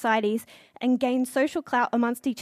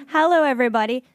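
louder stage hello; loud greeting; 5 dB louder, faster than usual. Real, not acted. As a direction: call it out to the room. Calling out to the audience.

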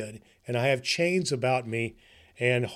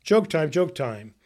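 put-on higher, louder, a cheery call to the kids; excited announcer; 4 semitones higher, 5 dB louder than usual. Santa calling the children over for joke time, excited.

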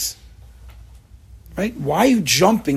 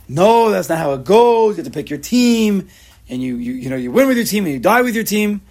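insistent mock fan; 6 semitones higher, 5 dB louder than usual. Fan defending loyalty.

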